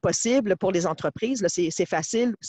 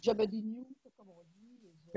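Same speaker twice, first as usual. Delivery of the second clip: sound cutting out; 11 dB quieter than usual. Real, not acted. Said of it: "le son coupe un peu".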